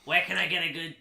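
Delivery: smoker voice. Retold or imitated. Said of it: "E T sounds like a smoker".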